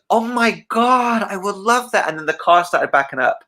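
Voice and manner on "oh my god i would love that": high slow delighted falsetto; Michael imitation. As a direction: breathe it out high and thrilled. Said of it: "And he goes".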